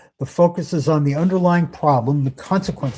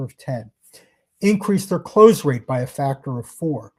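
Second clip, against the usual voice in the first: slightly slower, with pauses between benefits; deliberately slow. Shown as a demonstration. Sales trainer showing what prospects should hear, said slowly. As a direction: let each benefit land separately. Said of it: "And I do want to say that slowly".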